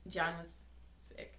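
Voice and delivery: mock whiny mimicry of husband; mocking imitation. Wife mocking husband's complaint, mock whiny. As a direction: echo him in a mocking tone. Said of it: "mocking repeat of husband".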